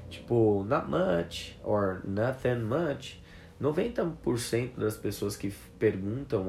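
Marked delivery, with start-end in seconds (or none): 0.7-3.2 high, laid-back answer; casual reply. Shown as a demonstration. Teacher shows the relaxed reply to what's up. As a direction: shrug it off easily. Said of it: "Você vai responder um".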